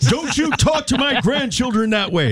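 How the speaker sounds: put-on high, gruff old grandpa; grandfather voice. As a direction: play the feisty old grandpa. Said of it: "That was my grandfather".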